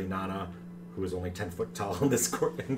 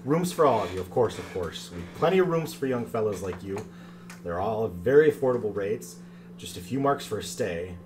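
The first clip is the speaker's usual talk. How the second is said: man doing a woman's voice; lightly voiced sweet granny; creaky warbling old lady; 6 dB louder than usual. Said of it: "creaky, sort of warbling little lady voice".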